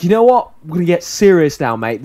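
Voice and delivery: bright optimistic rallying cry; upbeat pep talk. Retold or imitated. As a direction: pump him up like a cheery coach. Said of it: "This, this really upbeat, optimistic sp-, spiel".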